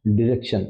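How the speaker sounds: डायरेक्शन said short as "di-rek-shun"; British short form. Shown as a demonstration. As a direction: clip डायरेक्शन to a short "dir" start. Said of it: "Britishers उसको थोड़ा short कर देते हैं".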